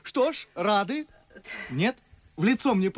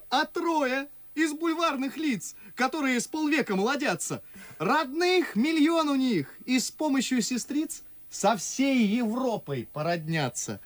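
higher-pitched satirical gossip; lively mockery; 4 semitones higher than usual. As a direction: poke fun at society acquaintances. Чацкий высмеивает московских знакомых. (насмешливо, оживлённо)

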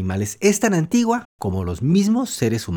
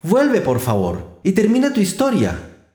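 mild mock call, slow then higher; calling after; 5 semitones higher, slower than usual. Alice calls after the departing mouse, mild slow pleading call. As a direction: plead after him, stretching vuelve slowly. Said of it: "gritó Alicia tras él".

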